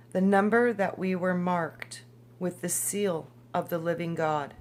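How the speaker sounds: measured scripture-style read-aloud; formal, evenly paced book reading. Acted. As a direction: read it out deliberately, pausing between phrases.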